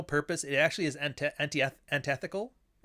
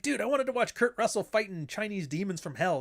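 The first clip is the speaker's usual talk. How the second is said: disappointed fan; 7 semitones higher than usual. Retold or imitated. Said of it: "You're like".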